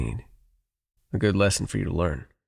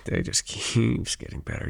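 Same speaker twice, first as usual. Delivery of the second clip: amused laugh; 5 semitones higher, slower than usual. Acted. Laughing at listener's naivety.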